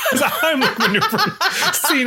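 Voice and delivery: high, laughing delivery breaking through the words; real giggle while talking. Real, not acted. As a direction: let the laugh spill into the sentence, up high. Laughs while introducing the movie.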